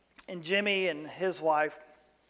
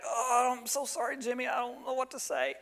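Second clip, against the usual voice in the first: higher, hesitant, awkward sympathy; fumbling condolence; 5 semitones higher, 4 dB quieter than usual. Retold or imitated. Pastor at the casket, lost for words, awkwardly sympathetic. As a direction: stammer out a helpless sorry. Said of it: "And I'm like".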